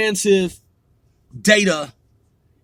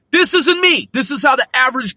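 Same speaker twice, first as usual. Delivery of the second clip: emphatic; 5 semitones higher, 4 dB louder, faster than usual. Real, not acted. Insisting it isn't his view.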